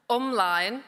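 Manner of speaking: ymlaen in a Bolton-tinged Welsh accent. Shown as a demonstration. Speaker rallies the crowd with a Welsh word in a Welsh Bolton accent. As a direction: give umlaen a proud Welsh Bolton accent. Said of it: "in my best Welsh Bolton accent".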